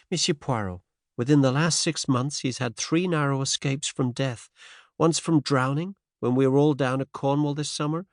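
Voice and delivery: put-on faint transatlantic American accent; light American lilt, lifted pitch. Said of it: "faint transatlantic accent".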